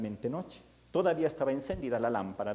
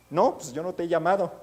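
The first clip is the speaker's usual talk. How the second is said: startled denial; 5 semitones higher, 6 dB louder than usual. Acted. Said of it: "sale todo Elí espantado".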